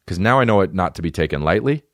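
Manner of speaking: mock British accent; half-hearted British take. Shown as a demonstration. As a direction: say it like a posh Brit, lightly. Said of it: "And it's British".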